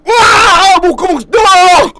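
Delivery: high shriek of disgust; disgusted scream. Real, not acted. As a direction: recoil and scream. Reacting to gross tongue video.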